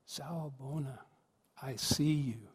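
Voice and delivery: soft, unhurried, felt greeting; heartfelt greeting. Shown as a demonstration. Speaker asking listeners to feel the greeting, soft and sincere. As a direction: say it quietly and let it sink in. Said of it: "But to just feel that".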